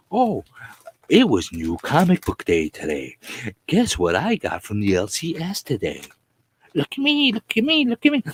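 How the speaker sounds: high squeaky look at me chant; mock the comic haulers in a squeal; mocking YouTuber. Mocking comic-haul YouTubers, high squeaky voice. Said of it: "And all they do is".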